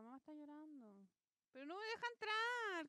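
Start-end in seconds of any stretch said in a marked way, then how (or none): 1.5-2.9 louder, higher cry of frustration; frustrated outburst. Real, not acted. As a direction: complain loudly that it won't let you in. Frustrated, locked out in game.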